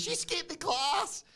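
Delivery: high, slow, sing-song sneer; mocking taunt. Champion taunting the interviewer, a high slow sing-song tease. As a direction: draw it out like a playground tease.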